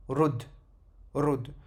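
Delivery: RUD stopped on the D; vowelless final letter. Shown as a demonstration. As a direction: land on the D of RUD, nothing after. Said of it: "avec la soukoun".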